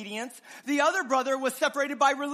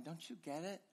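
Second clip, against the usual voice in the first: pleading father; 3 semitones lower, 13 dB quieter than usual. Acted. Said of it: "the father pleads with him".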